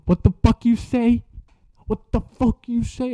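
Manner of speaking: high-pitched mock outrage; angry confrontation. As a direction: imitate an offended girl demanding an answer. Girl confronts boy who insulted her.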